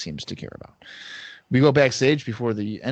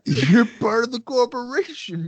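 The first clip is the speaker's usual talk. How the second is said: cheerful Volkov; 10 semitones higher, 3 dB louder than usual. Retold or imitated. Co-host voices Volkov too.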